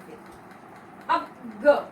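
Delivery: ग said as "ग्यान"-style gya, slow; drawn-out demo of ग as taught in school; common wrong pronunciation. Shown as a demonstration. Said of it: "लेकिन ये उच्चारण गलत होता है".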